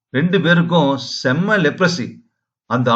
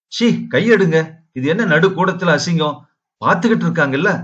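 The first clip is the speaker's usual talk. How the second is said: higher-pitched, mildly scandalised objection; embarrassed protest; 3 semitones higher than usual. Acted. Woman telling her lover to take his hands off, embarrassed protest.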